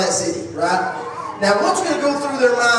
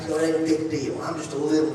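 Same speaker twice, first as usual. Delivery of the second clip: shrugging it off; 5 semitones lower, 5 dB quieter than usual. Retold or imitated.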